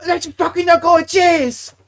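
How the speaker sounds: shouted, high-pitched mock Asian accent; loud caricatured Asian-accent cheer; thick Asian accent. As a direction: imitate an excited manager's thick Asian accent. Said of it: "In his thick Asian accent".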